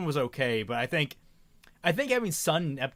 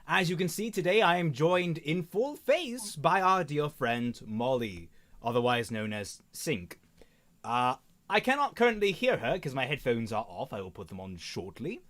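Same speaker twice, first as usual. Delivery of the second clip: put-on posh accent; 3 semitones higher than usual. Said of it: "stop talking in this posh accent".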